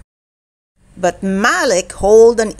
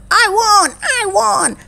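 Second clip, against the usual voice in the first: very high storybook victory cry; triumphant shout; 12 semitones higher than usual. A narrator's reading. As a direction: cheer for yourself, pitched way up. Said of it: "shouted Posey".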